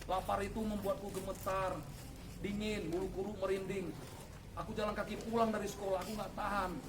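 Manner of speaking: soft, low, pleading prayer; retold prayer. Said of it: "Kira-kira seperti inilah doa saya". (doa memohon yang pelan dan rendah)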